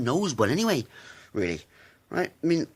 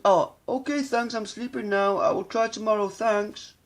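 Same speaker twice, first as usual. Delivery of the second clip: mocking the nerd; 9 semitones higher than usual.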